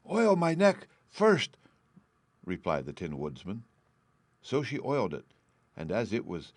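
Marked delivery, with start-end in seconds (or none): 0.1-1.6 high, slow, louder plea for oil; pleading Tin Man. A narrator's reading. Stuck Tin Man begging Dorothy for oil, high and slow. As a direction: draw it out like stiff tin joints begging.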